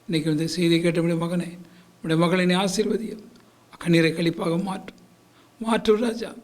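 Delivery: pleading pastor's prayer, rising in fervour; earnest Tamil pastor praying for his flock; fervent prayer. Acted. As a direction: pray aloud over the congregation. Pastor leads closing prayer.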